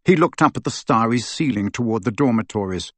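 ordinary delivery, nothing marked

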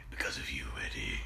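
soft whispered tender reply; whispered line. Retold or imitated. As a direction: breathe the line like a secret. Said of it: "Venom's is like".

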